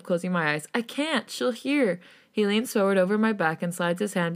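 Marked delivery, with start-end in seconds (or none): 0.7-2.0 high-pitched, anxious protest; whimpering. A narrator's reading. Player fears the friend will hear, whimpering higher. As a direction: plead it in a small, lifted voice. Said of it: "I whimper".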